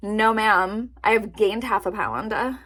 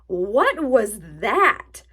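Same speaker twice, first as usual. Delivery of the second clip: slow, breathy what-was-that; startled whisper; 5 dB louder, much slower than usual. Real, not acted. Hearing her stomach growl mid-video, startled whisper. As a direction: hush it out, spooked by a noise. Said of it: "did you just hear my stomach?".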